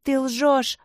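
громко и выше, в ярости; завопить, обвиняя; вопль. Acted. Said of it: "завопил Майкл". (мальчик вопит на зло)

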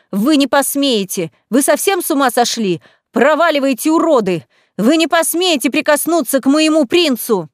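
high and loud, outraged; defiant yelling. A narrator's reading. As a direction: shout them down in fury. Heroine yells at attackers. (героиня в ярости кричит на вергов)

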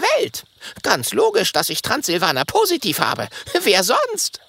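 proud. Acted. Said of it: "sagt stolz".

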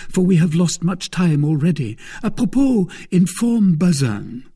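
keen and hurried; ready to go at once; eager. Acted. Aramis eager to leave.

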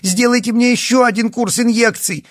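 high, loud begging cry; desperate pleading. A narrator's reading. Yana desperately begging the doctor for injections. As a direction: beg at full voice. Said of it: "в отчаянии крикнула Яна".

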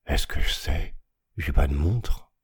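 lightly voiced grumble of an old ragpicker; grumbling ragpicker. A narrator's reading. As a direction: mutter it back, grumpy and put out. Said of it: "Il grogna". (voix de chiffonnier qui grogne, à peine marquée)

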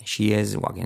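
"she is walking" with SH then a clear s; clean s in is. Shown as a demonstration. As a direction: keep IS as 'es', not 'ish'.

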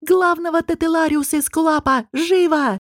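high, commanding shout, "Живо" snapped with a falling end; urgent command. A narrator's reading. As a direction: order the healer at once. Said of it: "закричал он".

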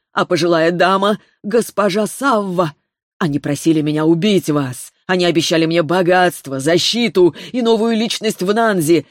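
a hint of a desperate, choking hitman; lightly voiced pleading killer. Choking killer confesses to spirit.

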